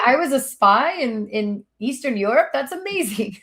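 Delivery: playful mock wonder; mock amazed. Guest reading wild wiki claims about herself, mock wonder. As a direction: act amazed at a made-up fact.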